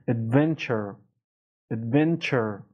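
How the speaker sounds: Adventure with firm stress on the middle syllable. Shown as a demonstration. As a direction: press on the VEN in Adventure.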